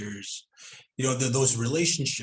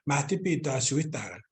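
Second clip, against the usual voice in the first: mild, everyday asking tone; polite table request in Cree; 2 semitones higher than usual. Shown as a demonstration. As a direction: ask nicely, without any edge. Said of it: "It's all in the tone of your voice".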